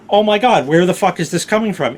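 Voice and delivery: high, loud frantic search; half-shouting in rising panic; panicked. Retold or imitated. Hunting for the burning smell, loud panicky. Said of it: "So I'm like".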